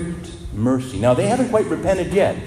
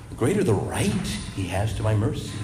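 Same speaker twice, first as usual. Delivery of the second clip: softer, savouring each word; softer repeat; 4 semitones lower, 5 dB quieter than usual. Shown as a demonstration. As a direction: let it sink in quietly. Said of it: "quote repeated softly for emphasis".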